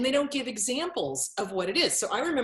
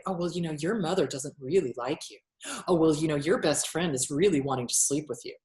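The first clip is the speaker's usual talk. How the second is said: poisonous whisperer; 3 semitones lower, faster than usual. Retold or imitated. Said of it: "dripping poison".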